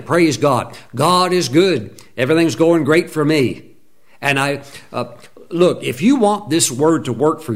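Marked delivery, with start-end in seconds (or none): 0.0-3.8 drown out the gloom with praise; jumping in with praise. Retold or imitated. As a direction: pastor cheerfully cutting off a complainer. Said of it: "I just immediately jump right in".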